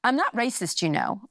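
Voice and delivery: a hint of the hurt aunt defending herself; mild mock protest; upset aunt. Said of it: "my aunt said".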